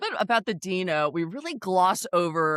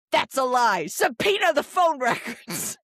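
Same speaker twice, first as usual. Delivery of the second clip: louder, higher, huffy imitation of Rula; indignant mock outburst; 7 semitones higher, 4 dB louder than usual. Mocking Rula demanding phone records, indignant and loud. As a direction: play the outraged reality star, pitched up.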